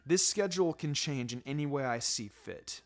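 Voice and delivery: an easygoing sensei with quiet menace; Kakashi's voice. Acted. Kakashi continues the schedule.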